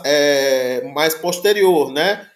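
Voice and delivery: ordinary talk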